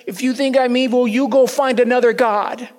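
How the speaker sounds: loud, sharp rebuke from God, a little fast; angry rebuke. Acted. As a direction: let him have it, loud and stern. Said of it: "And he let me have it".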